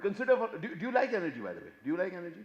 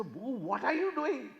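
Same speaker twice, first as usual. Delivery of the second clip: sweetly coaxing dad; 9 semitones higher, slower than usual. Acted. Sweet-talking distant son.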